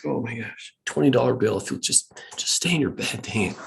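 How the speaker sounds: half-laughing plea; desperate. Retold or imitated. Worn-out parent bribing a child to stay in bed, desperate. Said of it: "And then it's desperation".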